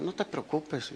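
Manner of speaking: quiet, retold comforting; soft reassurance. Husband telling his crying wife not to worry, softly reassuring. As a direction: reassure softly, as if quoting yourself.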